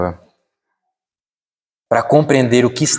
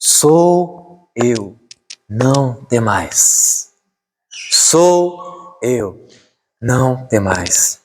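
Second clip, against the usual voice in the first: slow, drawn-out solemn quote; measured, weighty assurance; voice of the Lord; much slower than usual. Acted. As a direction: hold the words, pause between them. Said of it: "essa voz do Senhor".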